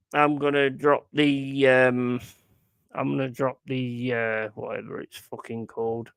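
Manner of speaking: slightly slurred, tipsy rambling. Real, not acted. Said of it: "You can tell I'm getting drunk".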